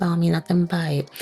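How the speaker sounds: quick low whisper under the breath; whispered aside. Real, not acted. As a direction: toss it off in a whisper.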